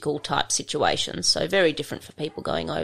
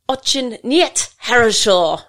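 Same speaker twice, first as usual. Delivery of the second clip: loud, higher, slow mock fury; furious Australian voice; 6 semitones higher, 6 dB louder, slower than usual. Instructor telling off a slack Russian trainee in class, mock furious Australian. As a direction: hammer out each word in retold indignation. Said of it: "in my best furious Australian voice".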